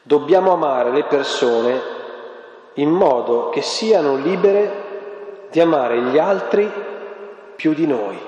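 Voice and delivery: slow, each phrase weighed; weighty quotation. Retold or imitated. Preacher quoting Radcliffe to the congregation, slow and weighty. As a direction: lean on "dobbiamo" and "altri", slowly. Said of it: "C'è una frase straordinaria di Timothy Radcliffe".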